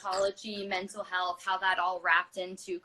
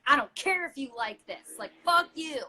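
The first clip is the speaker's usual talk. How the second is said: defiant; 4 semitones higher, 4 dB louder than usual. Retold or imitated. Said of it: "coming into class with this, like, "Fuck you" energy".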